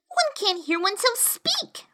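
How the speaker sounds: put-on high girlish whisper. A narrator's reading. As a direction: grumble it under breath. Alice complains, whispering.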